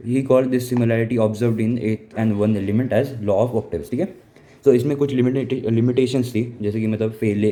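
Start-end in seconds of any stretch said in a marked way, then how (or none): 0.1-3.9 slow, deliberate dictation pace; slow textbook reading voice; reading notes aloud. Acted. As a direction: read it out word by word for notes. Teacher reading notes aloud slowly.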